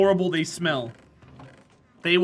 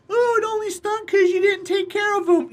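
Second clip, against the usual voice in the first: high, nasal-free mock whine of the doubters; mocking whiny quote; 12 semitones higher, 3 dB louder than usual. Streamer mocking ferret owners in a high whiny voice. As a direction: mimic the people who argue back, pitched way up. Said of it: "for all the people that say".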